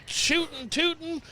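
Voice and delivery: slow, high, hammed-up cowboy drawl; overdone cowboy accent. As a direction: try far too hard to sound country. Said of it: "now you're just trying too hard".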